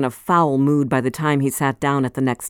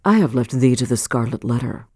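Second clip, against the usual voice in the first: put-on cold old man; 5 semitones lower than usual. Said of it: "replied Roger Chillingworth".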